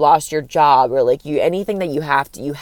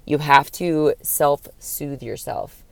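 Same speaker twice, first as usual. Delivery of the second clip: drawn out slowly and softly; lingering, calming delivery; slow, soft self-soothing; 5 dB quieter, much slower than usual. Shown as a demonstration. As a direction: soothe the word out gently. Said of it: "It's called self".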